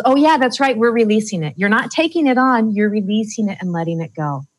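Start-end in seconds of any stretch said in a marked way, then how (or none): 0.0-1.5 bright, higher, louder "oh yeah" of a convinced brain; brain agreeing. Retold or imitated. Coach voicing the listener's brain agreeing, brightly raised. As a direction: play your brain catching on, pleased. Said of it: "your brain goes".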